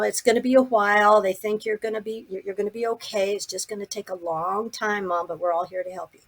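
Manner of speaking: hushed, soothing retold bedside talk; reassuring daughter. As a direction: gently reassure a sick parent. Daughter reassures her sick mother.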